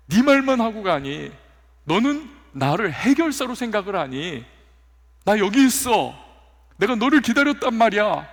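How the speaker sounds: God calling out, then trailing into sorrow; God reproaching a believer who leaves prayer early, pleading then hurt. Pretend.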